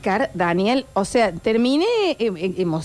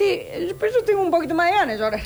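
inner tearful voice; 6 semitones higher, faster than usual. Retold or imitated. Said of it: "y vos por dentro decís".

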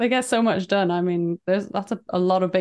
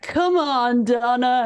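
imitating a man urging his bride, raised pitch; coaxing groom; 5 semitones higher, much slower than usual. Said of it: "he's like".

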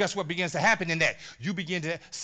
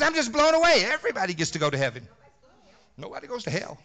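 mocking another pastor; 5 dB louder, faster than usual. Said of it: "How did that pastor say it".

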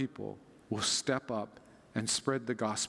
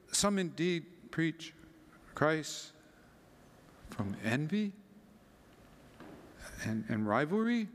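halting cold read; 2 semitones higher than usual. Acted. Reader reaching bad news in Paul's letter, halting. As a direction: falter through it with long pauses.

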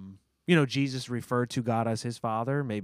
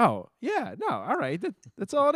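rising much higher and louder in happy surprise; delighted realization; 11 semitones higher, 3 dB louder than usual. Retold or imitated. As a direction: discover it was that easy, thrilled. Realizing the dish came out great.

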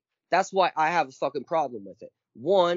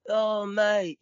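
higher-pitched, lightly put-on British accent; mock British accent; 5 semitones higher than usual. Returning to the TV actor example, mock British accent. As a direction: toss out a playful bit of fake British. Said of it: "talking in a British accent".

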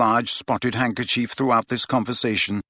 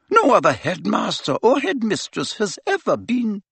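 higher, firm and precise; stern headmistress; 10 semitones higher than usual. A narrator's reading. Professor answering Harry about burial, firm and raised. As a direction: state the rule flatly and firmly. McGonagall voiced.

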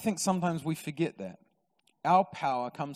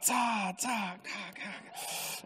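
celebration noise; 4 semitones higher, 7 dB quieter, much slower than usual. Retold or imitated. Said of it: "like, N B A celebrations".

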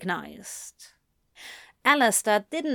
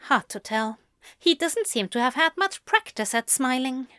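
quick, higher-pitched grumble; grumbling; 4 semitones higher than usual. Acted. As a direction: grumble it fast and high. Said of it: "she grumbled".

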